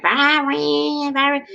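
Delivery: high, drawn-out calling of a name; film character calling out. Retold or imitated. Fan quotes an actress from the movie, high-pitched call. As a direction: imitate her calling, pitched well up. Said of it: "She was like".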